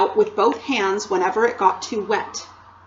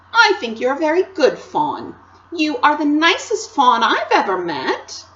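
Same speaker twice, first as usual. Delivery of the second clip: put-on higher, louder earnest girl; reassuring Lucy; 5 semitones higher, 4 dB louder than usual. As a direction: insist kindly, like a young girl. Narrator voices Lucy.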